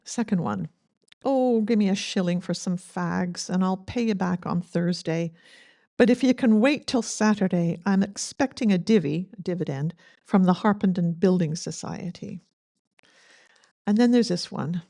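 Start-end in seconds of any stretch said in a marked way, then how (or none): 1.2-12.4 put-on light Scottish accent reading a begging poem. Eulogist reading dad's poem aloud, light Scottish accent. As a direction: lilt the lines in a gentle Scottish accent. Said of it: "Great Scottish accent".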